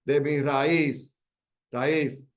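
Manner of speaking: "de mi raíz" drawn out slowly onto "íz"; stress on final syllable. Shown as a demonstration. Teacher showing the tenth-syllable accent, stressing "raíz" slowly. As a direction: set "raíz" apart, leaning on its last syllable. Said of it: "en la décima".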